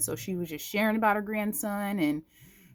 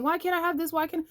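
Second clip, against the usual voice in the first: much higher petulant whine; mock whining complaint; 10 semitones higher, faster than usual. Believer fussing at God, mock petulant whine. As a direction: fuss like a sulky kid.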